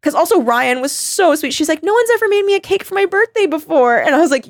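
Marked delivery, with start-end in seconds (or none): 1.8-4.0 higher, gushing friend voice; imitating Ryan's grateful gush; touched friend. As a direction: quote a touched friend, pitched up. Friend Ryan touched by cake.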